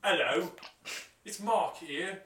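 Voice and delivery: high, loud put-on celebrity voice; Mark Wahlberg. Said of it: "right here to interview".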